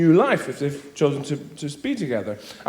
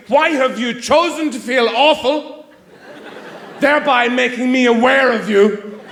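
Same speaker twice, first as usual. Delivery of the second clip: sarcastic translation; 3 semitones higher than usual. Retold or imitated. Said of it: "Somebody has said to you".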